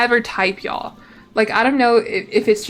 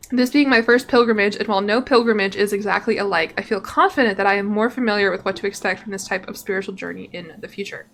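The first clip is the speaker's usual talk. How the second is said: reading game text aloud as a tale; story narration. Acted. Streamer reading the pilgrimage's end to viewers, story narration. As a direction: narrate it like a travel chronicle.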